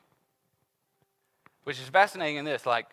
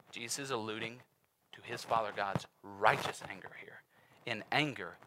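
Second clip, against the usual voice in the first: hushed whisper; 3 semitones lower, 6 dB quieter than usual. Real, not acted. Preacher whispers the king's anger to the congregation. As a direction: let it fall to a whisper.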